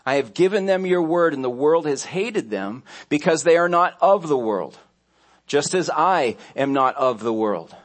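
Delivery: measured, emphatic Bible reading; scripture reading. Acted. Preacher reading Jesus' prayer to congregation, emphatic scripture reading. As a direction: read the verse with weight on key words.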